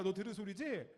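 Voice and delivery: ordinary delivery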